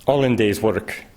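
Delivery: a light, hammed-up Russian accent; the sun speaking in a comical Bolshevik Russian accent. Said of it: "adopting a comical Bolshevik accent".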